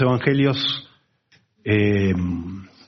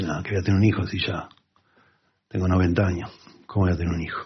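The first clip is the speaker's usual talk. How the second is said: mocking disbelief; 3 semitones lower, 4 dB quieter, faster than usual. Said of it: "Se burló, dice".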